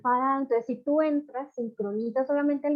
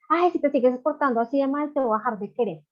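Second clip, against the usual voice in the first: a hint of a scolding mother, higher; mock threatening parent; 4 semitones higher, 4 dB louder than usual. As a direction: threaten the child with a raised voice. (regaño de mamá, un poco más agudo)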